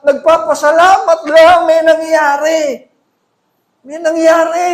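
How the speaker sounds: loud, high preacher's build-up; preaching at full force. Acted. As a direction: drive it home to the congregation. (malakas na pangangaral)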